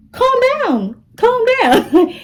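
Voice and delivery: high, squeaky, laughing plea to calm down; panicked pleading. Retold or imitated. Scared kid begging the angry girl to calm down, high and squeaky.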